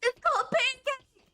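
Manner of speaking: high, squealing delight through laughter; overexcited. Real, not acted. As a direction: gush over the find. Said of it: "that was a little too much excitement".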